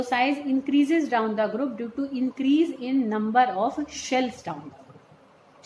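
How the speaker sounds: drawn-out note dictation; slow dictation. Real, not acted. Teacher dictating the summary rule to students, slow dictation. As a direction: state the rule slowly for writing down.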